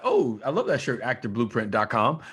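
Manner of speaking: bright, excited plug; excited street compliment. Acted. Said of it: "if I'm walking up to you on the street and I'm like".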